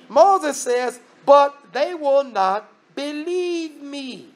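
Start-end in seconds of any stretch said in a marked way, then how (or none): 1.2-4.3 "But they will not believe me" drawn out very slowly, higher; slow emphatic quote. Retold or imitated. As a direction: stretch each word of "But they will not believe me", lingering on the end. Moses' objection repeated for emphasis.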